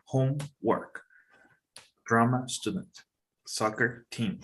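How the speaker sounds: "homework", "drama student", "soccer team", each leaning on the first word and falling on the second; first-word stress. Shown as a demonstration. Teacher showing a student compound nouns, stressing HOME in "homework", DRAMA in "drama student", SOCCER in "soccer team". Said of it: "the main stress is on the first word".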